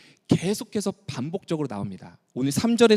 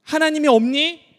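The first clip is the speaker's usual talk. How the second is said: higher, louder pained cry of disbelief; heartbroken question; 8 semitones higher, 4 dB louder than usual. Shown as a demonstration. God crying out to Israel in hurt disbelief. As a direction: plead it like a wounded father. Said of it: "이 말을 세 번이나 걸쳐서 반복하고".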